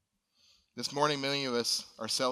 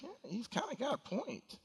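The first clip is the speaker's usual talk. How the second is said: inner voice; 11 semitones higher, 5 dB quieter than usual. Retold or imitated. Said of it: "you think".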